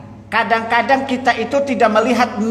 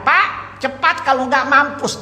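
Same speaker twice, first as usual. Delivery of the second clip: mock urgent cry, pitched high; retold warning yell; 6 semitones higher, slower than usual. Child warning father about a fire ahead, mock urgent yell. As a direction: call out a high warning without real volume. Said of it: "dia teriak".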